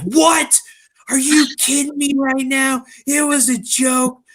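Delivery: imitated high-pitched disbelief; very high, indignant imitation; mock outraged wife. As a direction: squeal it like a wife discovering she was pranked. Retelling wife's outrage at prank.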